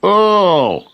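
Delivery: high startled yelp; Bear yells. A narrator's reading. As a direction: cry out in pain as Bear. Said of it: "yelled Bear".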